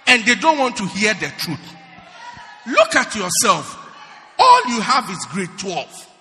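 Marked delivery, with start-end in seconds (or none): 2.6-6.1 laughing jab. Real, not acted.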